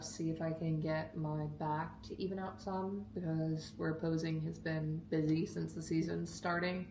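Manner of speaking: lisping around a whitening strip; slushy s sounds through the strip. Real, not acted. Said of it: "excuse the lisp".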